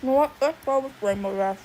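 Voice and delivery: talking while chewing; words round a mouthful of food; mouth full. Real, not acted. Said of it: "I'm sorry for talking with my mouth full".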